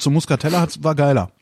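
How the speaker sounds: chewing while talking; mouth full. Real, not acted. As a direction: speak through a mouthful. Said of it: "ich esse gerade ein Leberwurstbrot". (mit vollem Mund)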